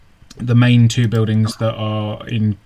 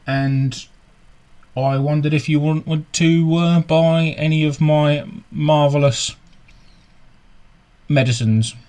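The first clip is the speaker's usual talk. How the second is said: put-on merchant's accent; 4 semitones higher than usual. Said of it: "he says".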